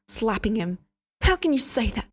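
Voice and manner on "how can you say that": outraged. Acted. Hester shocked and outraged.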